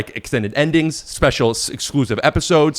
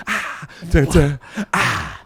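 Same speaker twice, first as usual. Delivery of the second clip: alien voice; 3 dB quieter, slower than usual. Pretend. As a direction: chant it like an alien. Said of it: "but do it as aliens".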